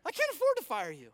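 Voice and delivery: Watson's line hammered home loud and high; booming boss voice. Retold or imitated. Watson insisting to the guilty executive, loud and emphatic. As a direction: let the punchline ring out.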